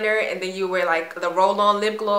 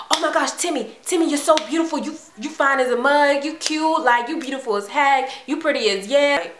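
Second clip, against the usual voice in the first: high-pitched imitation of gushing classmates; mock gushing; 6 semitones higher than usual. Classmates calling her beautiful all at once, mock gushing. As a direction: pile on the compliments in a high mimicking voice.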